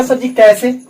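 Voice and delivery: lightly voiced pupil asking "how, sir"; a hint of a student's question. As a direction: play a curious student asking the teacher. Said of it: "अब आप कहिएगा".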